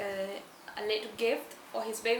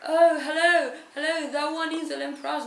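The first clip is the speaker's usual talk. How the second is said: gushing VIP voice; 6 semitones higher, 9 dB louder than usual. Retold or imitated. VIPs gushing over a celebrity.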